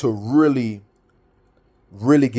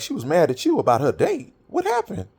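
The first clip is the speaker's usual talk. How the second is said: much higher, incredulous question on the last words; retold surprise; 6 semitones higher than usual. Asking his friend on the phone what happened, surprised. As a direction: sound caught off guard by the news.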